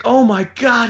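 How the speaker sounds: high, strained mock-panic yell; retold yelling. Dad selling an accident to the kids, mock yelling. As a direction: imitate him calling out in a panic. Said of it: "he's yelling at us".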